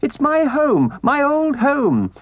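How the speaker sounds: very high, desperate little mole voice; high-pitched, distraught begging; anguished pleading. A narrator's reading. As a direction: plead frantically, stumbling over words. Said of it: "pleaded the poor mole in anguish".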